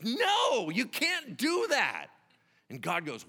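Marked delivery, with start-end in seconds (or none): 0.0-2.1 loud, high, drawn-out objection; high-pitched, forceful refusal; emphatic protest. Acted. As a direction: cry out in protest, stretching the words. Moses refusing God's plan.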